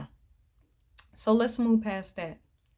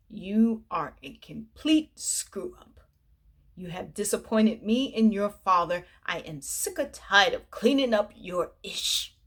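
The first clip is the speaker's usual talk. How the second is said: scolding mother. Retold or imitated. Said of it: "she proceeds to read in Victoria".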